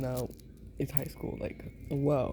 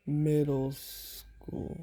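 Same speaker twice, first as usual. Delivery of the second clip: slow drawn out; much slower than usual. Shown as a demonstration. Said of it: "Yeah, yeah, middle school".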